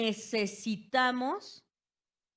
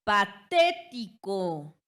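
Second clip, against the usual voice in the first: "Patético" lento, con TÉ fuerte y alargada; énfasis en la sílaba tónica; 6 dB louder, much slower than usual. Shown as a demonstration. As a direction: golpea el TÉ de "Patético", separando sílabas. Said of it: "antepenúltima". ("Patético" silabeado: pa-TÉ-ti-co)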